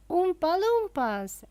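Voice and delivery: surprised exclamation; exclaimed together. A narrator's reading. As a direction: blurt it out in amazement. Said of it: "everyone said at once".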